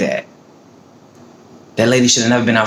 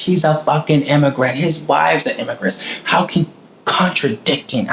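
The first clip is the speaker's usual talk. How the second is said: higher-pitched, indignant protest; angry rant; 4 semitones higher than usual. Real, not acted. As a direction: argue it angrily, pitched up. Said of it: "I'm just angry".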